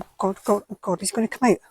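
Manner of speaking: normal talking voice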